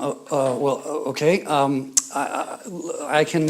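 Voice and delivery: acted hesitant, halting clerk; flustered stammer. Young man behind counter facing angry customer, flustered stammer. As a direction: stammer softly, as if searching for an answer.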